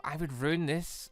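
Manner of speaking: ordinary talk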